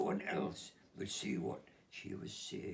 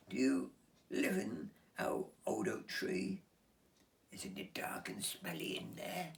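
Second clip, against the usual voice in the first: put-on curious girl; 10 semitones higher than usual. Olivia voiced in story.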